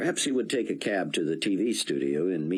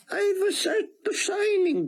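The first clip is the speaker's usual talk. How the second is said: put-on higher, heavy Hebrew-accented rabbi; thick Hebrew accent; 4 dB louder than usual. A narrator's reading. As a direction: speak English through a thick Hebrew accent. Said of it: "in his thick Hebrew accent".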